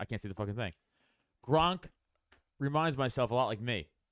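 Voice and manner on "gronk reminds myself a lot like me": acted, dead-serious, earnest, grave delivery. Retelling what dad said about gronk: imitating dad's very serious tone. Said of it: "the very serious tone".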